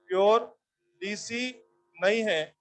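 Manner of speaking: प्योर lifted, then डीसी नहीं है slow; stressed pure. Shown as a demonstration. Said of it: "teacher drives home the point".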